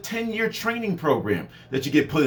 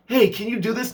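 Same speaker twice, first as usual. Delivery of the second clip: mock boss; 4 semitones higher than usual.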